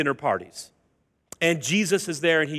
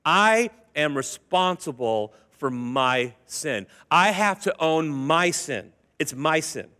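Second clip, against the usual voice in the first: sincere confession; 2 semitones lower, slower than usual. Shown as a demonstration. Model confession spoken.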